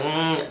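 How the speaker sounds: soft, short mocking "mm"; mimicking hum. Girlfriend's mom mimicking him, soft mocking hum. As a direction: imitate someone copying you with a quiet hum. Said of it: "she was mimicking me".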